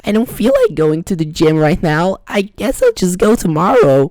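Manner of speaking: high, loud, whining excuse; whiny voice. Shown as a demonstration. Skipping the gym, lazy self whines high and loud. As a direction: whine like a bratty kid. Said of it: "if you just hear yourself like this".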